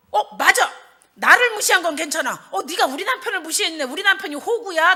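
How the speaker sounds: high, heated retort on her husband's behalf; worked-up acted grievance, pitched high; indignant rant. Preacher replays her fury at whoever slighted her husband, indignant.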